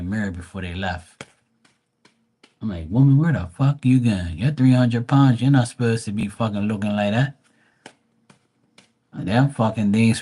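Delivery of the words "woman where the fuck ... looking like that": loud teasing scold; mock yell. Retelling roasting the woman to his sister, loud teasing scold. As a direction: bark it at her like a disgusted friend.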